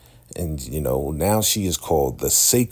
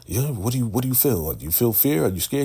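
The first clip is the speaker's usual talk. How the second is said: high-pitched, insistent questioning; menacing interrogation; 7 semitones higher, faster than usual. Retold or imitated. Unstable leader taunting his follower at swordpoint, mock menacing. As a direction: press him, each question lifting. Armed highest interrogates Anthony.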